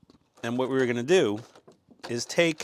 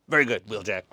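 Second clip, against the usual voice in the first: slightly lowered commander voice; Optimus Prime; 4 semitones lower, faster than usual. Acted. Optimus approving Wheeljack, lightly voiced lower commander. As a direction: approve like a boss, a little lower. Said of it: "that's my best impersonation".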